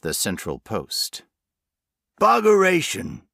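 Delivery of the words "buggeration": loud, high country curse; cursing shout. A narrator's reading. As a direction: bellow the swear word in frustration. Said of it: "cursed old Jack".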